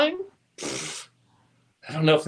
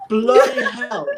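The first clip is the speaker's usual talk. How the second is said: playful attempt at an Australian accent; laughing go at Aussie; mock Australian exclamation; 4 semitones higher, 4 dB louder, slower than usual. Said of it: "in your best Aussie accent".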